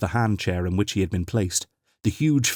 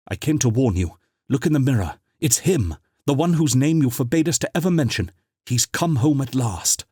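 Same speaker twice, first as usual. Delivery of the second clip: urgent; 5 semitones higher than usual. Acted. Urgent warning to old cousin.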